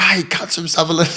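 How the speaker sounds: high, loud mock rant; retold shout. Fighter ranting about his opponent's suburb, loud shout. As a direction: yell it like a hothead fighter. Marco shouting in change room.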